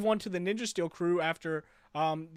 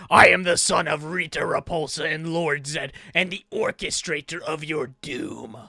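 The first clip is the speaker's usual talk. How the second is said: grandiose villain proclamation, loud start slowing toward the end; Thrax villain voice; 5 dB louder than usual. Acted. Correcting how Thrax introduced himself, grandiose villain voice. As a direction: boom it out like a villain, stretching the final words. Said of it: "He said it like".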